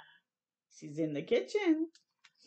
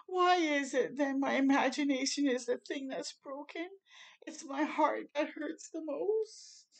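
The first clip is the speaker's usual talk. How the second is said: small voice; 5 semitones higher than usual. Acted. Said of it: "in a small voice".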